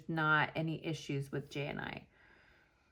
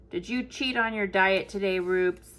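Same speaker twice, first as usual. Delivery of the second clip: talking to the dog; 4 dB louder than usual. Real, not acted.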